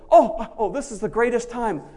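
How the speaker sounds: loud, laughing glee over distress; hammed-up giddy Paul; laughing joy. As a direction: laugh through the words. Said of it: "And Paul says".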